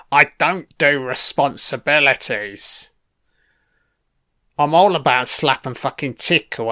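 lightly put-on Cockney geezer talk; a hint of a Cockney lad, chatting up. Alfie brushing off responsibility to his love, light Cockney voice.

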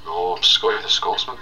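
lightly put-on Scottish brogue; mild Scottish accent; Scottish character voice. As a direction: insist in a Scottish voice. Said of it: "as a Scottish man called Scotty".

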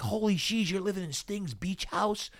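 high-pitched impressed buddy voice; mock awe, pitched well up; imitating amazed buddies. Buddies amazed at his house.

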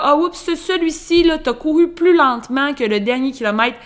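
high, loud chirpy app voice; running app voice. Retold or imitated. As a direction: scold like a bossy fitness app. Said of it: "une petite madame qui me crie dans l'oreille".

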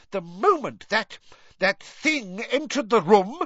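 high, loud scream. A narrator's reading. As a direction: scream it, pointing at him, trembling. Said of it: "she screamed".

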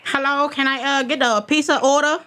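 put-on prank caller with a light Asian accent; lightly put-on Asian accent. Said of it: "I'm gonna do my Asian accent".

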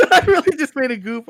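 high, loud, laughing through the words; laughing admission. Real, not acted. Host owning a slip to co-hosts, laughing. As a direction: own up while cracking up.

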